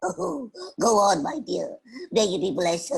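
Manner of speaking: mildly sobbing grateful boar; tearful blessing. Acted. Boar blessing the little girl, tearful. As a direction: send her off through hammed-up sobs.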